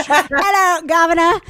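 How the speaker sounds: put-on a hammy, laughing British accent; deliberately awful British accent; bad British accent. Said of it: "you should hear a British accent. It's rubbish".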